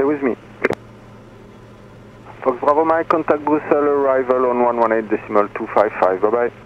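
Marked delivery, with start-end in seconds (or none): none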